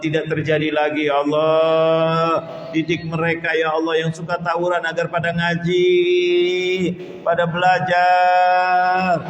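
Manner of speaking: earnest, chanting supplication with ya Allah refrains; a heartfelt prayer intoned for the congregation; closing prayer. Real, not acted.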